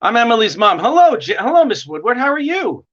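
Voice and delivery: usual speaking voice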